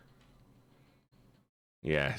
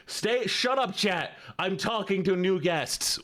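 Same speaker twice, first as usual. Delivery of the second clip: high, pitched-up telling-off; mock scolding; 8 semitones higher, slower than usual. Streamer hushes chat to talk to new guests, mock scolding. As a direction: playfully shoo the chat away.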